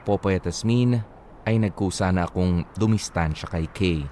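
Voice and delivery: low, earnest reading of a listener's letter. Acted. Reads listener's letter aloud. (taimtim na pagbasa ng liham)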